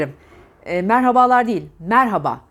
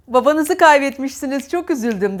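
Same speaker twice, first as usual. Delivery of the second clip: "Babanızı" higher and louder, with an altered tone; contrasting condolence tone; 4 semitones higher, 3 dB louder than usual. Shown as a demonstration. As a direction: condolence line in a different, lifted voice. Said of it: "vücut dili aynı mı". (başsağlığında farklı, yükselen ton)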